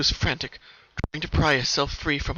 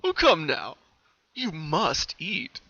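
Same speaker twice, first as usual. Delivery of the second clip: coaxing captor; 3 semitones higher, 4 dB louder, slower than usual. Acted. New captor voice begins.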